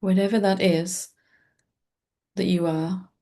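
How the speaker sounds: calm meditation guide with long, restful pauses; guided meditation. Acted. Teacher leading listeners into presence with the breath, calm guided-meditation voice. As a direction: guide listeners gently, leaving space between short phrases.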